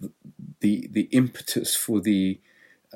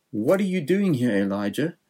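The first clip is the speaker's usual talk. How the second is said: casual God; 4 semitones higher than usual. Retold or imitated. God voiced asking again.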